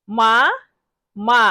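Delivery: মা as a single open "maa", set apart; model pronunciation. Shown as a demonstration. Teacher drills learners on মা, careful model pronunciation. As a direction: sound out "মা" alone, pausing for learners. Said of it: "বারবার শব্দটি উচ্চারণ করব".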